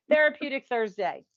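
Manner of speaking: a light, laughing Southern twang on Therapeutic Thursday. Shown as a demonstration. Host greeting her Alabama co-host, in a mock Southern twang. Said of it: "putting on my, my Southern twang".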